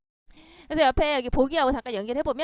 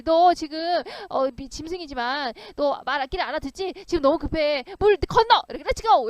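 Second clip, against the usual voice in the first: urgent plea to horse; 3 semitones higher, 5 dB louder than usual. Acted. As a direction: hurry the horse across, half yelling. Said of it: "말한테 갑자기".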